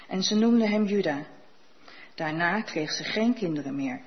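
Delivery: measured, even Bible reading for the congregation; calm liturgical reading; scripture reading. Acted. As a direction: read the Genesis passage steadily, as scripture.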